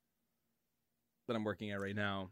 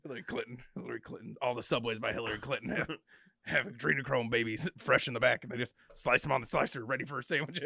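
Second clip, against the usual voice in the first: conspiracy rant. Retold or imitated. Imitating conspiracy rambling.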